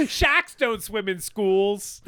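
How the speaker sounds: drawn-out, mock New England accent; imitated Massachusetts accent. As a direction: stretch it out like a Boston local. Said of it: "the thickest New England accent".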